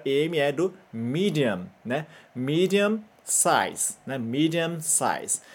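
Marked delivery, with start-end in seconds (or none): 2.4-4.0 slow "Medium size" in English sounds. Shown as a demonstration. Teacher giving the English original slowly. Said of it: "o completo seria do inglês". 4.2-5.4 slow "Medium size" in English sounds. Shown as a demonstration. Teacher giving the English original slowly. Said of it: "o completo seria do inglês".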